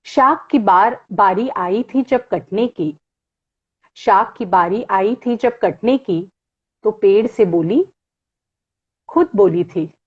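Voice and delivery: lightly measured poetry reading; poem recitation. Acted. Reads Gulzar poem aloud.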